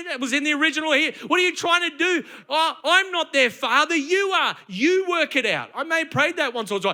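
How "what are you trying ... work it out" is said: higher-pitched mock protest; acted exasperation. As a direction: play a fed-up Moses arguing back at God. Moses complaining to God, acted.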